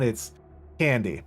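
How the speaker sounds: falling pitch on CANDY; falling tune. Shown as a demonstration. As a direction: let CANDY go downward. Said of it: "if it goes down".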